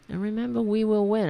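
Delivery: tired, hoarse voice going. Real, not acted. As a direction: rasp through a worn-out voice. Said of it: "I'm losing my voice".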